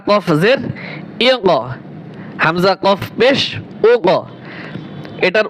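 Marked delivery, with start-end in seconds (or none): 1.3-1.5 "ই ক" with a bounce after the ক; echoing qalqalah. Shown as a demonstration. Teacher drilling students, "ই ক" with qalqalah echo. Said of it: "পাল্টা একটা আওয়াজ আসে". 3.9-4.1 "ও ক" with a bounce after the ক; echoing qalqalah. Shown as a demonstration. Teacher drilling students, "ও ক" with qalqalah echo. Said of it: "পাল্টা একটা আওয়াজ আসে".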